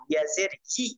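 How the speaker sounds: "ই" as a yi from mid-tongue. Shown as a demonstration. Teacher showing students ya with zer, "ই" from mid-tongue. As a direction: raise the middle of the tongue for "ই". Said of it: "জিহ্বার মধ্যখান থেকে".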